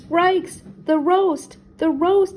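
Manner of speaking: high, loud cartoon-dog yelps; alarmed warning. A narrator's reading. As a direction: cry out in comic panic. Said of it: "Scooby warned".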